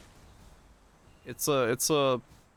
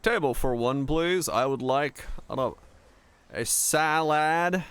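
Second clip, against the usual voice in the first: loud mock American accent ordering a salad; playing an American tourist ordering, loud and slow on the salad; put-on American accent; 3 semitones higher, 4 dB louder than usual. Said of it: "risky to order an American accent".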